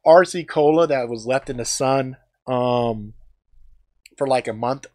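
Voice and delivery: ordinary talk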